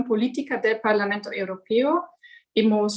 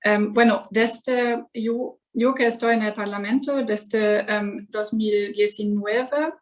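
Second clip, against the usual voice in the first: Spanish spoken with a German accent; careful Spanish from a German speaker. Real, not acted. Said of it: "soy alemana y mi español es, eh, muy mala".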